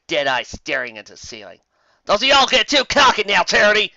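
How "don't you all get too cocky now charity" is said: loud, high, laughing call; loud laughing taunt; laughing tease. Acted. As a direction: tease a friend mid-fight. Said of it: "Acorn Jade said with a laugh".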